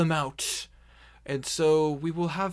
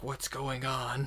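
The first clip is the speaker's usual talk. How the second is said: unconvincing put-on orc voice, lower and quieter; 4 semitones lower, 7 dB quieter than usual. Voicing a character who half-convincingly copies the orcs: half-convincing orc imitation. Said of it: "half convincingly kinda copies the sounds".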